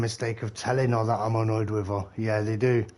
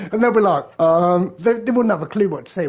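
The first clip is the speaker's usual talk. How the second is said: high, loud, laughing; laughing at the thought; laughing while talking; 7 semitones higher, 7 dB louder than usual. Real, not acted. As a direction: talk through the giggles. Laughing through the story.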